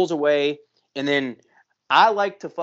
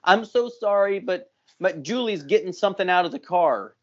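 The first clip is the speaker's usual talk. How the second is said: super sweet; 3 semitones higher than usual. Retold or imitated. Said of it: "super sweet".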